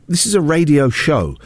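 "show" given the emphasis at the end; stress on SHOW. Real, not acted. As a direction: land on the word "show". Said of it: "Emphasis on the word show".

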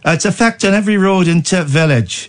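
put-on lilting Irish accent for a quote. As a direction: read it out in a comic Irish brogue. Reads quote in put-on brogue.

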